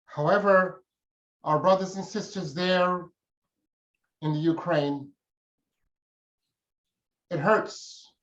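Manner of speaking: grieving speaker pausing over the bloodshed in Ukraine; emotional. Real, not acted. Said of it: "having been so emotional".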